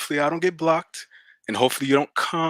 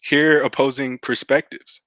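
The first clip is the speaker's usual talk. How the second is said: slow, measured closing point; slow, deliberate. Real, not acted. Caller spelling out advice to the host, slowly and deliberately. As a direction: say it slowly, word by word. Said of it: "but I'ma say it slowly".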